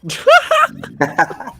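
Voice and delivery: high, loud dinosaur shriek; dinosaur roar. Acted. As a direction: screech like a hurt dinosaur. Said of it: "That's a good dinosaur impression".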